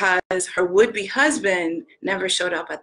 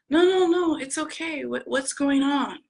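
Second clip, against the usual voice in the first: high-pitched, softening reassurance; acted concern for a friend on the phone; reassuring; 7 semitones higher than usual. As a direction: wave the apology away in a higher voice. Voices friend reassuring the caller.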